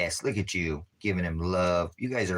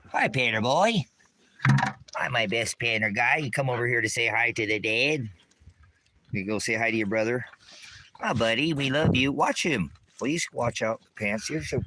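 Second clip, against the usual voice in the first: high sing-song voice to the cat; pet talk; 4 semitones higher than usual. Real, not acted. Owner greeting his cat, high cooing pet voice.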